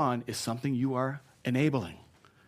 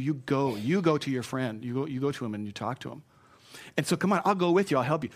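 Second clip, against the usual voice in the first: direct. Shown as a demonstration. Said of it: "Here's a direct one".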